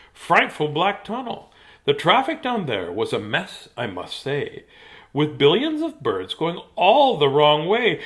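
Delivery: lively rhyming narration with swooping pitch; animated storybook delivery; dramatic story reading. Acted. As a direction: read the mishaps aloud with relish. Reads picture book aloud.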